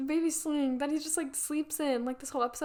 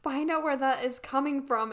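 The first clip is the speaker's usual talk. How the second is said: imitating a monotone order. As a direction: deliver it evenly, with no lift. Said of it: "in the most monotone voice".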